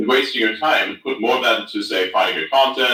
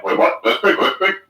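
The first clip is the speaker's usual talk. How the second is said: surprised; 8 semitones higher than usual. Retold or imitated. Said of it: "I'm like".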